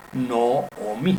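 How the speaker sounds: Nomi with the O drawn out as no-o-MI; slow Nomi, O held through two beats; long doubled O. Shown as a demonstration. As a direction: sound the reduced vowel in Nomi like the O before it. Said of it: "suena igual que el".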